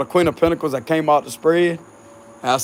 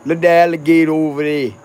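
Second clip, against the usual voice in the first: tossed-off Cajun voice, a bit louder; mock Cajun accent; 4 dB louder than usual. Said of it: "They sound like that".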